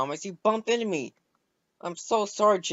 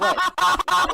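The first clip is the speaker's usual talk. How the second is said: surprised what; 7 dB louder than usual. Acted. Thomas startled by laughter.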